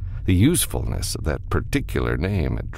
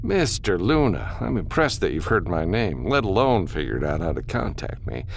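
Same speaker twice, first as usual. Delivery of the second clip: lightly voiced formal, polite refusal; businessman, dismissive; 4 semitones higher than usual. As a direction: turn the caller down with measured courtesy. Businessman turns the caller down.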